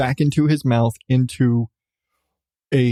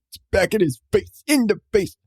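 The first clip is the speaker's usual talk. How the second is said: higher, laughing at her own words; amused disbelief; 7 semitones higher than usual. Real, not acted. Mom laughing at her odd phrasing, amused. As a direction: savor how odd it sounds. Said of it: "Sounds so weird".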